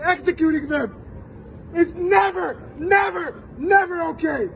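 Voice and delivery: impassioned and upset, close to tears; emphatic public plea, feeling breaking through; real emotion rising as you condemn it; getting emotional. Real, not acted. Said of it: "I'm sorry I'm getting emotional".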